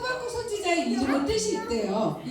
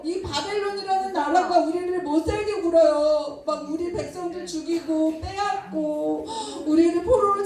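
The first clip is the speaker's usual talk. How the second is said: pleading prayer; 3 semitones higher than usual. Acted. Prophet Habakkuk begs God to save his people, pleading. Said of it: "이렇게 기도했어요".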